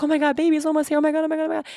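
high, quick, excited oh my gods; bubbling over as the baby gets close; excited chant of oh my God; giddy excitement. Retold or imitated. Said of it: "I'm like".

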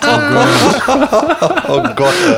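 high-pitched laughing groan. Real, not acted. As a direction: laugh out the words, squealing. Reacting to awkward story.

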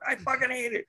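Lewis Black quote. Retold or imitated. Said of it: "candy corn".

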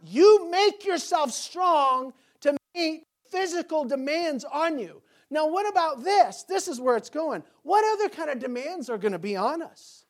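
loud, high, driving sermon voice; preaching at full force. Acted. Pastor rousing his church about life's demands, full-force preaching. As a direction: hammer the point home to the congregation.

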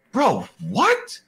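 high rising disbelief; incredulous bro. Retold or imitated. Player reacting in high disbelief to the ref's countdown. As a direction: pitch it way up in disbelief.

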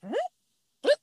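hammed-up grudging patience; impatient T I. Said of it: "T I was making all these faces like".

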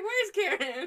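high, loud retold question; mock calling out. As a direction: exclaim it in mock searching. Acts out looking for Karen.

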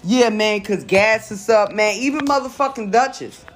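indignant rant. Real, not acted. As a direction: complain hotly about prices. Outraged complaint about rising prices.

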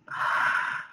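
short breathy reaction sound; acted-out sharp breath; imitated gasp. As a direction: let out a voiceless breath of astonishment. Imitating own reaction on reading it.

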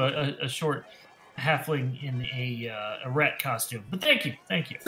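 understated sarcastic thanks; tinge of sarcasm. Acted. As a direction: let a little sarcasm creep in. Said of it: "sarcasm on, on his voice".

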